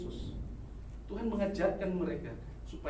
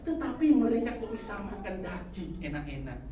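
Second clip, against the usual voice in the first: high, loud indignant protest; loud, aggrieved prophet's complaint; shouted complaint; 9 semitones higher, 10 dB louder than usual. Retold or imitated. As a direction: protest loudly at the wicked. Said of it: "Lalu dikatakan".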